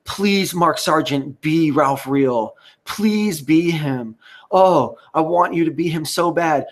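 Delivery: high, drawn-out pleading imitation of Jesse; hammed-up desperate plea, stretched slow; mock begging. Mocking Jesse Spots begging Mark Sargent to be Ralph Real, whiny plea. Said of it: "he was begging".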